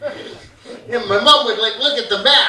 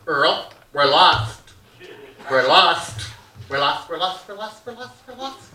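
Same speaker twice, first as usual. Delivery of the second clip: nagging mom; 4 semitones lower than usual. Retold or imitated. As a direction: drone it over and over like a fretting mother. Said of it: "she'd go".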